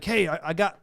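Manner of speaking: put-on faint, failed stab at a Mississippi accent; half-hearted try at a coworker's Mississippi accent; attempted Mississippi accent. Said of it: "I can't do his accent".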